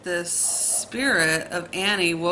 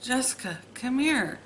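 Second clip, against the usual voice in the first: retold calls, rising higher each time; sister calling my name; 4 semitones higher than usual. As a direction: echo her calling you from upstairs, a touch eerie. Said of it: "she just kept saying".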